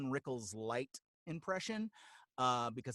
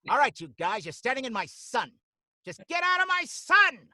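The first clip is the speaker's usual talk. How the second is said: louder, higher cranky frog, rising to a yell; cranky Don Rickles; 11 semitones higher, 13 dB louder than usual. Shown as a demonstration. Voice actor demos Bruce the Butterfrog, cranky and loud. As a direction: shoo them off your sunny spot. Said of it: "kinda sounded like this".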